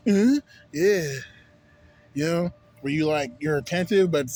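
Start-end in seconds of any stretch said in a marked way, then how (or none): 0.1-1.1 dazed, higher and louder stoned reply; stoned drawl. Retold or imitated. Mimicking how a stoned worker answers, dazed. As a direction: play someone high, answering a bit out of it. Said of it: "You look like".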